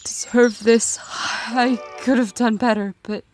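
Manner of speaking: faint, whispered apology, half breath; dying whisper. Acted. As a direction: she can barely speak.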